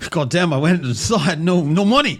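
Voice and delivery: bad Australian accent, high and loud; hammed-up Aussie accent impression; his Aussie accent. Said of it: "in his intimidable Aus-, Aussie accent".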